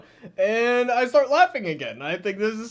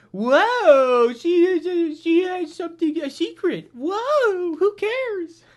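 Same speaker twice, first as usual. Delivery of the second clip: higher, sarcastic fake wonder; mock awe; 8 semitones higher, 4 dB louder, slower than usual. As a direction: gasp it like a bored fan faking amazement.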